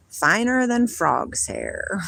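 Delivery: slowly savoured folksy saying. Shown as a demonstration. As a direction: draw out the old saying. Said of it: "They have a saying".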